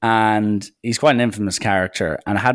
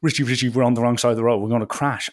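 rapid, mildly panicked gabble; retold panic, rushed; mock panic; 3 semitones higher, faster than usual. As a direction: imitate a panicking driver, words tumbling out.

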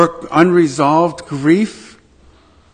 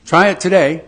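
infomercial voice; 2 semitones higher than usual. Pretend. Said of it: "Do I sound like an infomercial?".

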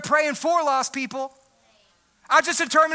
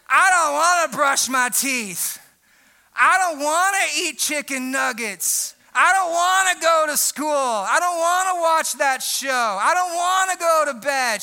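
put-on slow, drawn-out childish complaining; whiny five-year-old. Pastor imitating his five-year-old daughter, slow whiny complaint. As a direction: whine each "I don't wanna" like a tired kid. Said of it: "She's like".

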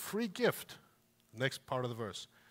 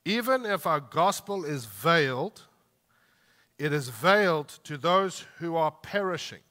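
slow group reading; 4 dB louder than usual. Shown as a demonstration. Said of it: "we're gonna do verse three and four together".

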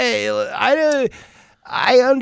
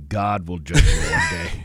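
preacher voice; 5 semitones lower than usual. Pretend. Mock preacher warning to Marty.

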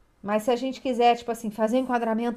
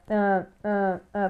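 imitating stammering; 3 semitones lower, much slower than usual. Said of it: "a pessoa já começa a gaguejar".

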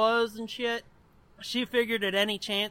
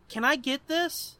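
put-on pleading kid; 5 semitones higher than usual. Acts himself as child asking mom.

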